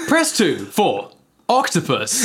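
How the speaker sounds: slow recorded menu prompt; automated options voice; phone menu voice. Pretend.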